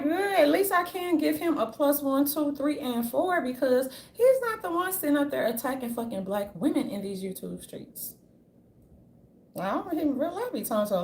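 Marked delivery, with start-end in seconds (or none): 0.0-8.1 mocking viewers. Fans approving of him to others, lightly mocked in a higher voice. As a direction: sing their praise in a lightly put-on voice. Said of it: "And they're like".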